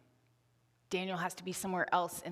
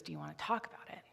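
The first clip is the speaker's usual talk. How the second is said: soft, quick murmur at the bedside; gentle dad; 5 dB quieter, much faster than usual. Retold or imitated. A dad kneeling by his crying daughter's bed, asking softly. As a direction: quietly ask the upset child if she wants to talk. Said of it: "and he goes".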